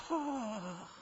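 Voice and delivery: soft breath of "aah"; imitated delighted sigh. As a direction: imitate a wife softly melting at praise. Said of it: "She's gonna look at you and go".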